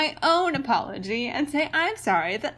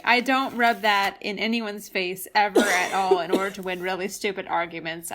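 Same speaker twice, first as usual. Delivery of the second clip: dry, sarcastic denial; 3 semitones lower than usual. Real, not acted. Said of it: "I say in complete sarcasm".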